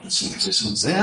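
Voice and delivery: put-on slipping into a casual French accent; murmured working talk with a touch of French. Artist talking through the work, in a light French accent. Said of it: "I don't know why I've gone French".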